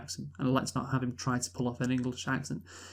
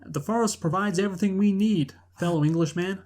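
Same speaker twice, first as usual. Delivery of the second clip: higher, louder hammed-up outlaw leader speech; rally the outlaws in a plain American voice, overdone; mock rousing speech; 6 semitones higher, 4 dB louder than usual. Mocking the actor's speech to the forest outlaws, hammed-up rousing. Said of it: "Like he said, kinda like".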